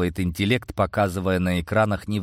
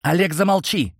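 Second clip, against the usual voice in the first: much higher, louder barked command; hoarse bark; 9 semitones higher, 3 dB louder than usual. A narrator's reading. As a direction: bark at him to shut up. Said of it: "рявкнула на него принцесса сиплым голосом".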